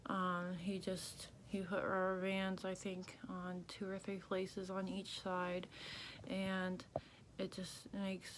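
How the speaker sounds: talking through a banded jaw; jaw banded shut. Real, not acted. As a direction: speak with barely moving jaw. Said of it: "which makes it harder to talk".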